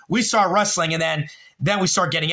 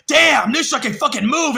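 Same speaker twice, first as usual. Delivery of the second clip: higher and louder, hyped-up crowd cheer; impressed crowd; 9 semitones higher, 5 dB louder than usual. Retold or imitated. Cast members hyping up the wrestling win, excited shout. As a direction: crowd amazed at the takedown. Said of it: "everyone's like".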